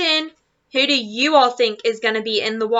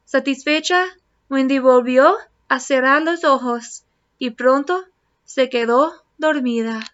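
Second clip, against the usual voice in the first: storybook read-aloud, gentle and lively; reading to children. Acted. Teacher reading a picture book to her class, lively storytelling. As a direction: read it like bedtime story time.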